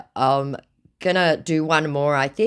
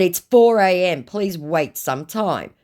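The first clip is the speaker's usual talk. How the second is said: raised start, slowing right down; mock weary request; 6 semitones higher, 5 dB louder, slower than usual. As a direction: stretch out the request. Acts her reply to scammer.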